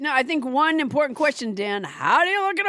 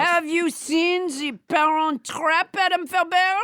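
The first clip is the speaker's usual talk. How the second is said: French Trump voice. Acted. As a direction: keep the French Trump puppet going. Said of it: "French Trump would disown her".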